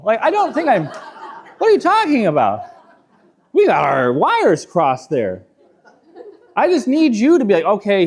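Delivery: laughing, flustered denial; mock-defensive with a laugh; laughing protest. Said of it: "I'm like".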